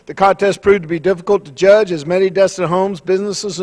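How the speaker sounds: brisk official announcement read; press release reading. Acted. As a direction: read the statement out like a formal notice. Reads the press release aloud.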